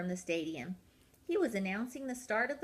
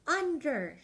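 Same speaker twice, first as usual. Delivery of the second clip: a raised, higher under; coach's shout; 7 semitones higher, 4 dB louder than usual. Acted. Coach Peg shouts to the penguins at the bar. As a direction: call the duck out firmly. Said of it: "shouted Peg".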